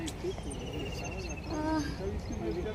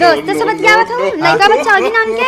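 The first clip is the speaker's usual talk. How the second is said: loud, higher jealous questioning; suspicious challenge; 3 semitones higher, 7 dB louder than usual. Acted. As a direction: confront the husband, not believing a word. Wife challenges suspicious phone call. (शक में खिसिया के जोर से पूछल)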